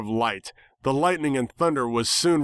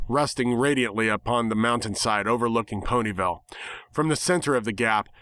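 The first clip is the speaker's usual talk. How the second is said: ordinary delivery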